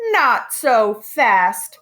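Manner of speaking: slow, loud, menacing hiss of a mean teacher; unpleasant hiss. Acted. New teacher hisses at the unruly class, slow and loud. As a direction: drag it out like a threat. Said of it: "hissed an unpleasant voice".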